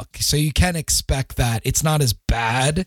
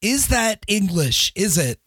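higher voice, baffled and straining to follow; mock bewilderment at a thick Scots accent; confused friend; 8 semitones higher than usual. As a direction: squint at the words you can't make out. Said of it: "you're like".

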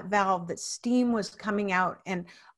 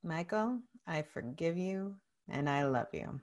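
very soft, low affirmation; soft self-forgiveness; 4 semitones lower, 10 dB quieter than usual. Real, not acted. Client repeats the coach's words to herself, quiet and low. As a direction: murmur it gently to yourself.

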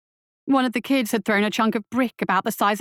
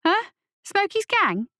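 put-on much higher, disbelieving young boy; incredulous boy; 11 semitones higher than usual. A narrator's reading. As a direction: scoff at the idea. Lasky voiced as boy.

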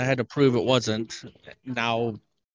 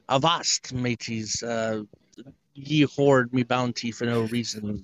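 put-on pirate accent; slower than usual. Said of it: "Do the voice in the airport".

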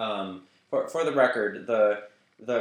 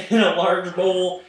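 higher, louder, slow put-on old Southern granny drawl; Granny's hillbilly accent; 9 semitones higher, 8 dB louder, slower than usual. Reading the cornbread recipe for the cookbook, in a hammed-up Southern granny accent. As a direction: stretch the recipe out like a folksy hillbilly grandma. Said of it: "this is the voice that Granny would have wanted".

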